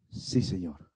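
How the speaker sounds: very low, hushed answer; quiet, low devoted reply; tender reply. Acted. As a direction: answer softly and low, humbly. Peter's answer in a tender moment.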